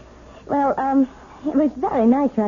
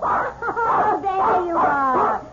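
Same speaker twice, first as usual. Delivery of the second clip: high, slowed gush of relief; woman thrilled to find her dog; delighted cry; 6 semitones higher, much slower than usual. Acted. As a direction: coo at the found dog. Finds the dog.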